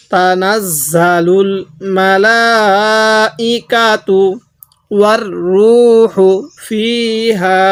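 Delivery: ওয়ার রূহু ফিহা chanted with held vowels; slow recitation. Shown as a demonstration. Teacher recites the phrase for the class. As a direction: recite it smoothly. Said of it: "তাহলে".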